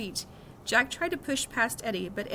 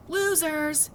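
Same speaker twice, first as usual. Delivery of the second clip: shouted; 6 semitones higher, 3 dB louder than usual. A narrator's reading. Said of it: "Henry shouted really loudly".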